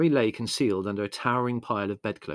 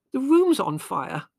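high, loud, drawn-out cry; urgent alarm; 8 dB louder, slower than usual. A narrator's reading. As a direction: stress the danger to someone half asleep. Urgent alarm to sleepy son.

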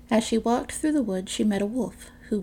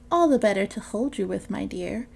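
sly wolf as granny. Acted. Wolf answers sweetly.

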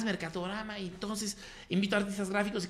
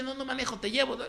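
upbeat reply; 7 semitones higher than usual. Retold or imitated. Replying to friend at concert.

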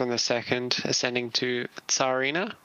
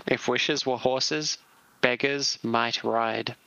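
mock Russian accent; slower than usual. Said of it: "with an insulting Russian accent instead".

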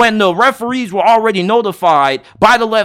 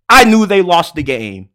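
ordinary talk, nothing marked

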